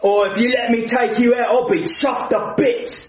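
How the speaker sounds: cheeky British chat-up; British accent, flirting; flirty British accent. Acted. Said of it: "I don't like his accent".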